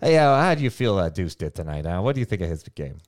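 put-on old reporter voice. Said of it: "I talk like an old reporter".

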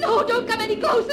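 high, loud, panicked cry; hysterical, desperate fear; terrified warning. Acted. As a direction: scream him away from you. Wife warding off husband.

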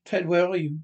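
loud call across the house; calling out to find Ted. Acted. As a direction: shout for Ted to answer.

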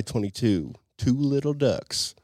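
calling out a bingo number; bingo caller. Shown as a demonstration. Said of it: "every number has a name".

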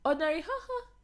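high, loud, exasperated whining at God; mock frustrated outburst. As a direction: throw up your hands and complain, half laughing. Frustrated prayer to God, acted.

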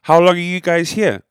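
high, loud friendly driver question; Uber driver voice. Acted. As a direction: play the chatty driver again. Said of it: "the Uber driver says".

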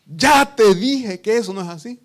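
loud high scolding parent; acted scolding. Parent scolding a child who talks back, loud scolding. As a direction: snap it like an impatient parent. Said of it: "Pero nosotros".

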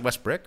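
"Westbrook" with its last syllable turned into "brick"; mock mispronunciation. Host jokingly correcting his co-host on the player's name, mock mispronunciation. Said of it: "I believe it's pronounced Westbrook".

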